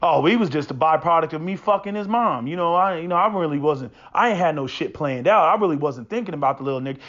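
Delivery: mock careless father.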